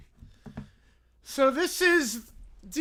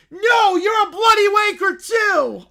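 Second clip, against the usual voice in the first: put-on high loud childish yelling; bratty kid screaming; 10 semitones higher, 13 dB louder, slower than usual. Caillou shouting curses at his co-hosts on air. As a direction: scream the insults like a tantrum. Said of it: "Please stop screaming directly into the mic".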